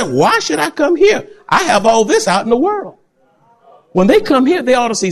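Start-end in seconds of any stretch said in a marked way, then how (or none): 0.0-3.0 sinner's voice. Retold or imitated. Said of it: "a sinner will say".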